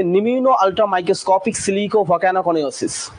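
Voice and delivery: very slow, word by word; slow careful demonstration; slow demo pronunciation. Shown as a demonstration. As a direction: spell it out slowly for the class. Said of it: "প্রথমটা উচ্চারণটা হচ্ছে".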